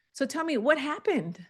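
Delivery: high, open question with a lift; curious upswing. Shown as a demonstration. Asking an expired seller what happened, curious upswing. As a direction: sound genuinely curious. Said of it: "The times that you do use upswings".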